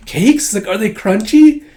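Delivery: put-on a small kid excited about sweets; eager little girl. Anya voiced eager about cakes.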